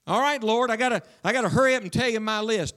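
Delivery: hammed-up impatient believer reeling off demands; hurried selfish prayer. Preacher mimicking a hurried churchgoer reading God a list, mock rushed. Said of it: "Listen to yourself pray".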